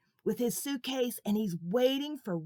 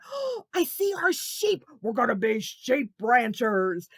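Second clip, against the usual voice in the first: put-on excited kid; 4 dB louder than usual. Red excited about sheep.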